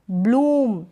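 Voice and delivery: ब्लूम with a stretched oo; long oo in ब्लूम. Shown as a demonstration. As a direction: hold the vowel of ब्लूम long. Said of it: "ब्लूम नहीं पढ़ेंगे".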